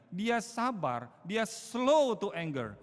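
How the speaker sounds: slow, loud, high, with "slow" stretched out; preacher spelling out the proverb slowly; emphatic slow stress. Acted. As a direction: hammer each word, "slow to anger".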